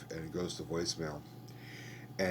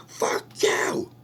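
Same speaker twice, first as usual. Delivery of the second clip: "Fuck you" whispered through a sob; sobbing whisper; 9 dB louder than usual. Retold or imitated. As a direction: breathe "Fuck you" out while crying. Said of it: "goes ballistic".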